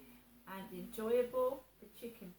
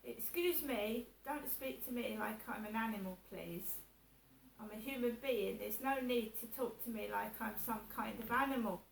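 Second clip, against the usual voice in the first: calm polite request. Shown as a demonstration. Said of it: "you just say to people".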